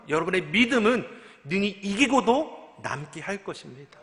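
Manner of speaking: loud, emphatic sermon delivery; forceful preaching. Real, not acted. Pastor urging a congregation through hardship, forceful preaching. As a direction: preach it hard, driving each key phrase home.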